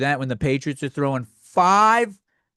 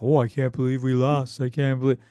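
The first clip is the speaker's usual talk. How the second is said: lower, half-hearted mock disbelief; feigned surprise; 4 semitones lower than usual. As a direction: badly fake being surprised. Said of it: "I'm gonna keep acting surprised".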